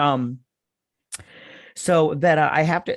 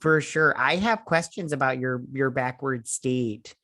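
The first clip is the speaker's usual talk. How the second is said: put-on Minnesota accent. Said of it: "keep this accent up".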